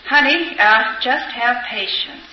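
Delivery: calmly coaxing, slowing down; mild imitation of a patient, calm husband; retold calm. Husband soothing his wife after drinking, calmly. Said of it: "he said very calmly".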